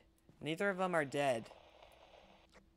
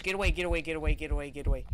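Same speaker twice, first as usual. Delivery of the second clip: being chased; 2 semitones higher, 5 dB louder than usual. Real, not acted. Ghost chasing him.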